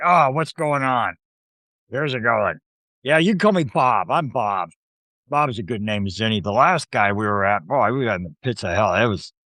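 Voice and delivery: Bob the imp. Acted. Imp meeting the new party, jaded and griping. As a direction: play a jaded sidekick sizing people up. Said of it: "No, no, his voice like".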